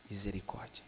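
breathless whisper of dismay; whispered awe. Acted. Preacher whispering in shock at the famine story. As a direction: hush it out like a gasp of horror. Preacher reacts to dung-eating.

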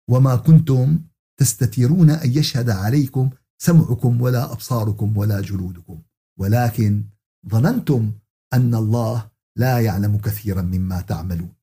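Quran recitation. Acted. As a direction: recite the verse formally, pausing between phrases. Recites a scripture verse.

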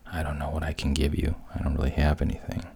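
fast, tumbling words, caught off guard; hurried, embarrassed mermaid; flustered. Acted. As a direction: rush it out like a girl with nothing to offer. Ariel flustered by witch's demand.

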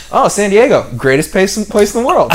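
imitating a British man, high and loud, with a laugh; hammed-up British gushing about San Diego; British accent. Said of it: "he has British accent".

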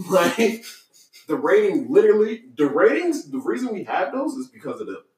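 talking with gum in mouth; words round a piece of gum; chewing gum. Real, not acted. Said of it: "I gotta gum in my mouth".

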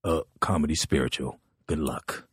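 low, fast, offhand mumble; lazy Paul voice. Retold or imitated. Paul invites the comic on tour, low and offhand. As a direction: toss it off like a casual offer. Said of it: "he goes".

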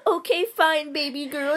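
high mocking boyfriend imitation; mock sulking. Friend making fun of the boy's text, high and mocking.

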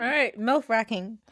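words slurring around braces; tongue tripping over new braces. Real, not acted. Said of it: "I have braces in my mouth".

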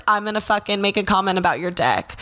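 usual speaking voice

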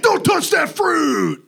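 high, slow, shouted through laughs; hammy snake, laughing as you go. Acted. Snake's line, acted.

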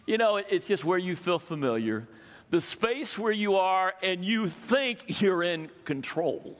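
ordinary delivery

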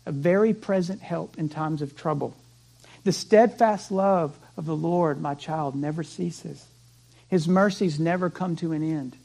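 put-on soft, calm, steady reassurance to a child; steady trust. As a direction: quietly hold firm for the child's sake. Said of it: "with as much integrity as you can muster".

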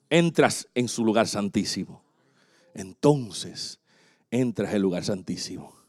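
low, softened solemn voice; hushed reverence. Real, not acted. Preacher leading church into the most holy place, hushed. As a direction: drop down low and soft, as if stepping inside. Hushed climax after building list.

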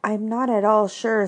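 thoughtful. Acted. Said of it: "in a thoughtful voice".

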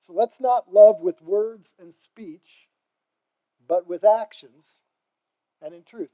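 slow, weighty sermon line, each word laid down; slow, deliberate. Shown as a demonstration. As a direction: say it slowly and carefully so they can follow. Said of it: "say it with me".

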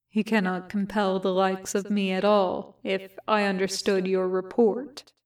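a hint of a calm, unbothered stranger; cool telepath. Benjamin the telepath answers.

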